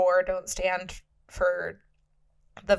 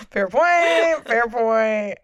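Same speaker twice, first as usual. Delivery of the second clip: laughing concession; 2 semitones higher, 6 dB louder, much slower than usual. Real, not acted. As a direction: concede the point through a laugh.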